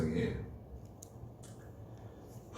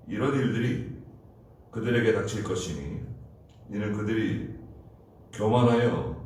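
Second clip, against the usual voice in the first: measured, solemn Bible reading; scripture reading. Acted. Pastor reading scripture to the congregation, solemn. Reads Zephaniah passage aloud.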